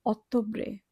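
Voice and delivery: অক্টোবরে as ottobre, with a long dental t. Shown as a demonstration. Teacher models Italian October, অক্টোবরে as ottobre with dental t. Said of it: "এখানে আমরা ত এর মতো উচ্চারণ করব".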